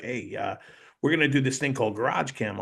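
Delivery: imitated New York producer making a pitch; lightly put-on New York accent. Producer pitching Garage Cam to his cameraman, New York accent. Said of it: "he's got this New York accent".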